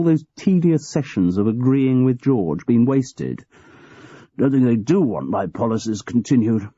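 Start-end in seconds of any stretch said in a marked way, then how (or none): 4.4-6.7 a hint of truculent old man; grumpy, defiant old boss. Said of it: "the old man went on truculently".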